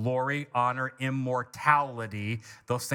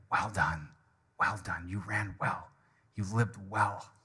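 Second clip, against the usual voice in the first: low, soft words of approval; quietly commend a faithful servant, as God would; tender commendation; 7 semitones lower, 4 dB quieter than usual. Acted. Voicing God's praise in heaven.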